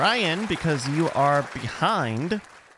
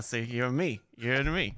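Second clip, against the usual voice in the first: mock New England accent; 3 semitones lower, 5 dB quieter than usual. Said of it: "New England".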